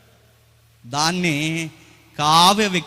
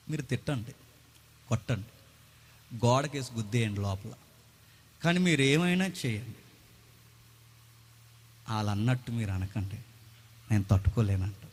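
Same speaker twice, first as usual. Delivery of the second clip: wounded wife; 8 semitones lower, 9 dB quieter than usual. Retold or imitated. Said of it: "ఆవిడేమంటదంటే".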